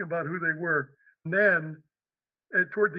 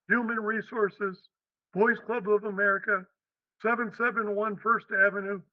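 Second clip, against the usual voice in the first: put-on New York accent; 3 semitones higher than usual. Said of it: "with a real heavy New York accent".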